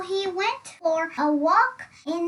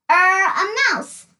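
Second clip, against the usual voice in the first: unsure guess; 3 semitones higher, 8 dB louder than usual. Acted. Dizzy unsure answer.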